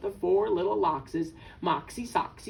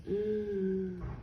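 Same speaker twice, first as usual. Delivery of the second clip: soft drawn-in gasp; playful gasp of dread; dismayed gasp; 3 semitones lower, 7 dB quieter than usual. Pretend. Reader reacts to birds' fate.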